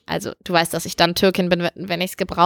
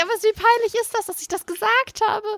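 embarrassed; 10 semitones higher than usual. Real, not acted. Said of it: "Ich bin so dämlich".

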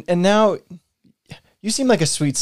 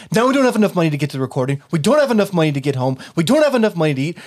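exasperated listing; 4 semitones lower, faster than usual. Acted. Listing grievances in quarrel.

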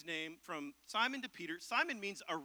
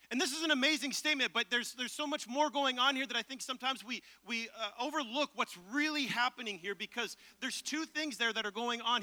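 higher and faster, geeking out; excited; 4 semitones higher, 5 dB louder than usual. Real, not acted. Pastor geeking out over the Bible to his church, excited. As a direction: rush ahead, carried away by the passage. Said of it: "I'm getting all excited".

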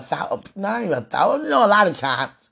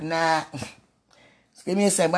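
laughing quote; 2 semitones lower, slower than usual. Retold or imitated. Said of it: "But I was like".

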